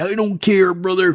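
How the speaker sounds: a hint of a gruff wrestler. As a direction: toss it off like a wrestler brushing it aside. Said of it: "he just slept right in it".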